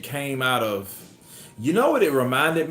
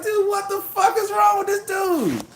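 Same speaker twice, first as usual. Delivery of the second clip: mock yell. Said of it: "I'm like".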